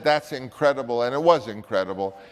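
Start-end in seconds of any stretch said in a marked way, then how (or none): 0.0-1.0 put-on Viennese accent. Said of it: "when he said".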